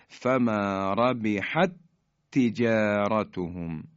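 فما ربحت تجارتهم with the two ت joined into one strong ت; merged recitation. Shown as a demonstration. Teacher demonstrating idgham of ت to students, slow chant. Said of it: "تی دوم متحرکه".

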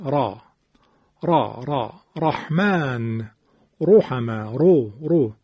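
را and رو with a thick, full ر; heavy R. Shown as a demonstration. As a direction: demonstrate emphatic ر in را، رحمن، رو. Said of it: "رو، تفخیم". (را و رو با رای درشت و پرحجم)

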